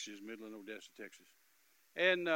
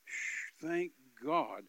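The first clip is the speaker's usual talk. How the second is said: big blown-out breath, then firm voice; relieved exhale; 6 dB louder, much slower than usual. Retold or imitated. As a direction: act out relief with a long phew. Acting out great relief, repeated.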